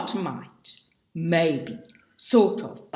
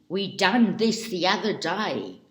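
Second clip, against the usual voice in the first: backwoods country speech. Retold or imitated. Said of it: "their speech is clotted with grammatical inventions".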